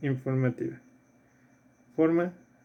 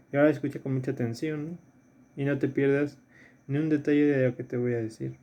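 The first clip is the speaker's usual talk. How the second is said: quick reread; faster than usual. Retold or imitated. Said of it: "Muchos podrían decir".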